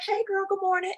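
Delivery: high-pitched cheery greeting; a singer. Retold or imitated. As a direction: breeze in with a high singsong hello. Imitates a singer's morning greeting.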